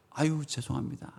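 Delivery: small acted sorry; sheepish apology. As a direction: back down meekly after a telling-off. Acts scolded servant apologizing.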